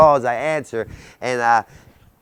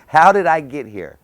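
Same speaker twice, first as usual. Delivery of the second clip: laughing disbelief; 4 semitones higher, 7 dB louder than usual. Real, not acted. Laughs as he repeats it.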